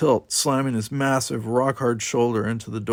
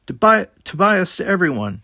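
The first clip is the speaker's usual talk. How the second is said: raised, higher voice calling everyone; calling out over comlink; 8 semitones higher, 6 dB louder than usual. A narrator's reading. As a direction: call out urgently over the comlink. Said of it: "she called out".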